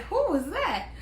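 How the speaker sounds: high-pitched mock amazement; amazed onlooker. Acted onlookers staring as she enters.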